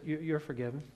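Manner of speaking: a big judge letting him off, quietly; gruff judge. Retold or imitated. Preacher as the judge pardons a scared teenager, softly gruff. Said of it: "He said".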